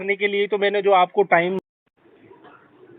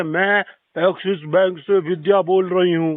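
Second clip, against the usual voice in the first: robot voice. Retold or imitated. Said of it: "जो robot वाली call".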